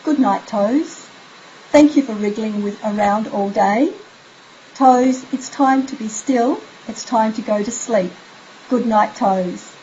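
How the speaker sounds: slow, gentle bedtime words to the toes; slow soothing goodnight. Shown as a demonstration. Parent soothing child to sleep, slow and gentle. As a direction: lull the child with each phrase, slowly. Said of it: "And it goes like this".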